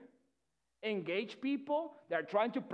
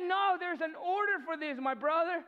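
higher, firm pleading refusal; firm plea; 5 semitones higher than usual. Retold or imitated. Tamar refusing her brother, higher pleading voice. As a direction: hold your ground while begging. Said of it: "So she said".

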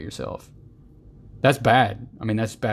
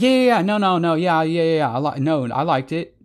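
high, rushed yeah-no babble; hammed-up nervous waffling; 6 semitones higher, 3 dB louder than usual. Mocking a nervous person answering a lunch question, flustered. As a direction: spit out the yeahs and nos in a flustered jumble. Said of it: "It's like".

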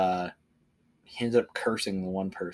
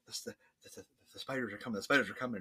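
mock panicked whisper; 5 dB quieter, much faster than usual. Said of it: "He's like".

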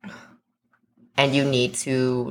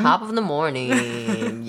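slow, high Irish greeting; exaggerated, lilting mock Irish; mock Irish accent; 5 semitones higher than usual. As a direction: draw out a fake Irish hello, pitched up. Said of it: "in the group chat every morning".

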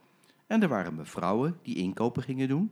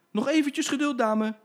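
much higher, sweet coaxing tone; soothing driver; 14 semitones higher, 6 dB louder than usual. Acted. Driver Jim coaxing the impatient lady, sweetly. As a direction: placate her with a grin. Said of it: "zei de chauffeur".

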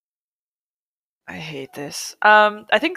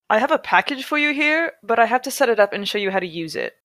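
higher-pitched, lightly done California surfer; a hint of California surfer dude, pitched up; 4 semitones higher than usual. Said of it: "use my California surfer voice".

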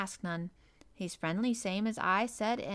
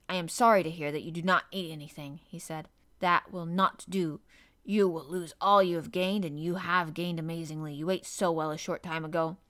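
lightly voiced stern doctor, measured; a hint of a worried physician warning a patient; concerned doctor; 4 dB louder than usual. Doctor warning the boy about not eating, lightly voiced concern.

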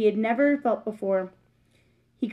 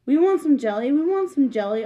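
high, louder little-mouse chant; squeaking children; 4 semitones higher, 5 dB louder than usual. Acted. Little cousins begging for jelly, squeaky and louder. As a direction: chant it like eager little mice. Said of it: "the little cousins began to squeak".

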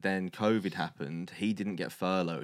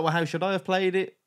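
much louder and higher, a pleading mock protest; imitating the lad; 13 semitones higher, 9 dB louder than usual. Flatmate asking the friends how he should have played it: mock pleading. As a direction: play the baffled flatmate asking what he did wrong.

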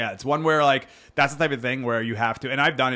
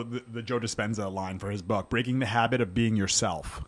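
burping after fizzy drink; 3 dB quieter than usual. Real, not acted. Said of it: "sorry I'm burping a little bit in my thing".

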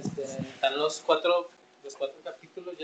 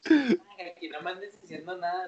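cholo talk; 4 dB louder than usual. Retold or imitated. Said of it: "nomás para hacer reír a estos güeyes".

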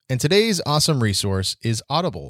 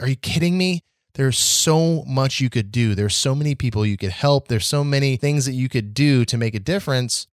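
exasperated disbelief. Retold or imitated. Frustrated host answers bored social media posters in disbelief. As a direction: react in disbelief to the bored people. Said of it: "I'm like".

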